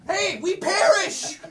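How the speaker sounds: high, laughing mock cry of panic; a laughing parody of scared disciples. Preacher laughing as he mimics the disciples' panic.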